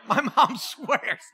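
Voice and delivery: drawn-out words through a laugh; chuckling, stretched-out delivery; amused. Real, not acted. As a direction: laugh while saying it, slowly. Laughs at mother's claim.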